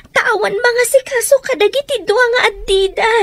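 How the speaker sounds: tearful. Acted. Daughter pleads for siblings.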